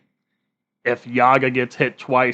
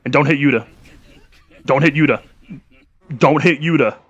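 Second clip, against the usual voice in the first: urgent pleading; 3 semitones higher, 6 dB louder, faster than usual. Real, not acted. Pleading with game character.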